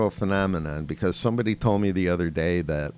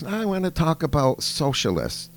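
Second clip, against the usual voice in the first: higher, louder mock child voice; a hammed-up schoolgirl presenter, pitched up; imitating a little girl; 8 semitones higher, 3 dB louder than usual. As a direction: play the kid doing a grown-up speech, higher and louder. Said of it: "then she goes".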